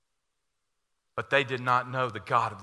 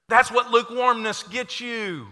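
fiery preaching; 8 semitones higher, 10 dB louder than usual. Acted. Preaching at full force.

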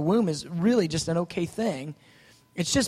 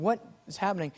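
inner thought; 7 dB quieter, faster than usual. Retold or imitated. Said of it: "And I'm thinking".

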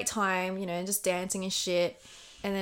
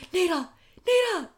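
calling her name much higher; excited calling; 10 semitones higher, 3 dB louder than usual. Retold or imitated. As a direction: call out to your friend, thrilled. Calling friend about the earring.

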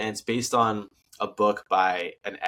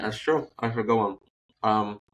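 talking while chewing ice; words round a mouthful of ice. Real, not acted. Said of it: "sorry, I'm chewing on ice".

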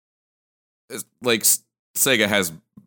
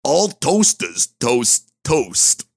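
slow proverb; 5 semitones higher, 4 dB louder, much slower than usual. Pretend. Slow mock proverb delivery.

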